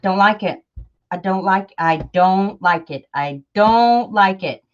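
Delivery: grumbling refrain, DON'T leaned on; mock grumble, slowing on the last repeat; imitated self-criticism. Vlogger quoting herself while making a journal, grumbling dislike. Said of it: "it's like".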